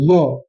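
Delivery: य said alone as a single ya sound; isolated sound. Shown as a demonstration. Teacher to students, य said alone as a ya sound. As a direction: give य on its own as the ya sound. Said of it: "य कह रहे हैं कि नहीं कह रहे हैं".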